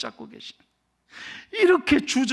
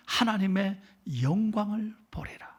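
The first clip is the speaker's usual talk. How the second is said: whisper; 6 dB quieter than usual. Acted. Preacher drops to a hush.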